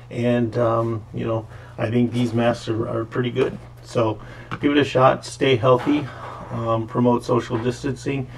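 muffled behind surgical mask; speaking with covered mouth; through a face mask. Real, not acted. Seen 2: Surgical mask covers mouth and nose in every frame throughout.

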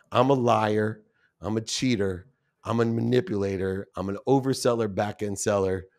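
owning each label softly and heavily; quiet confession. Retold or imitated. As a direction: confess each flaw to yourself. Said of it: "I still get choked up today".

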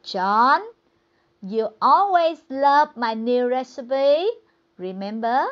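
loud, pointed reminder from the wife; wife corrects the husband, loud and firm; wife setting him straight. Retold or imitated. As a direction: pull him back into line right away. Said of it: "bà vợ chấn chỉnh liền".

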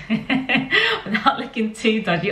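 giggling through the words; laughing. Real, not acted. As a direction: laugh as you say it. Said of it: "laughs while repeating".

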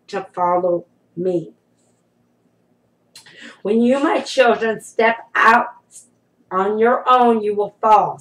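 solemn, deliberate voice of the Lord; prophetic declaration. Acted. Speaking as the Lord to God's children, solemn and prophetic. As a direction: declare each phrase firmly, with long pauses between.

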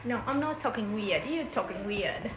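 mock British accent, lightly done; a kid faking a British accent; put-on British accent. Sister teased for her mock British accent. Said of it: "why are you talking like that?".

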